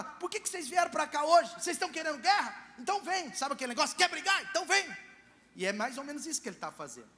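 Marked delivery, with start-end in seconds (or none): 0.0-3.3 defiant challenge. Retold or imitated. Jefté provokes the Ephraimites. 3.9-4.9 mock challenge. Mock picking a fight.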